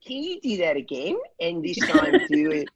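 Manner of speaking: light mock Australian accent. Filmmaker asking a singer for another take, Australian accent. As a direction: put on a lightly Australian documentary-maker's voice. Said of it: "the speaker with her Australian accent".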